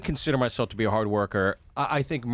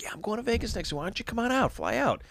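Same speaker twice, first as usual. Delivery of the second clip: pitched way up, breezy come-on; smooth pickup voice; 10 semitones higher than usual. Retold or imitated. Retelling a vacation hookup, mock smooth high invite. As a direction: play the slick guy inviting her to Vegas. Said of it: "and it's like".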